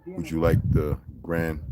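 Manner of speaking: a lightly put-on posh tour guide offer; mimicking a polite guide. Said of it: "this is what he said".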